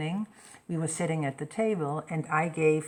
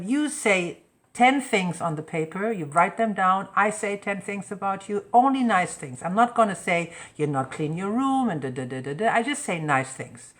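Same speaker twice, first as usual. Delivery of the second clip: firm rules; 3 semitones higher, 5 dB louder than usual. Retold or imitated. Mother setting rules for teens.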